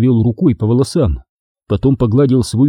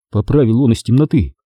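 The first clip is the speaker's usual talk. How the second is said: plain reading voice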